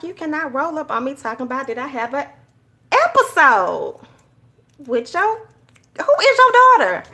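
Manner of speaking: indignant retelling. Retold or imitated. Mock indignant retelling, high ending.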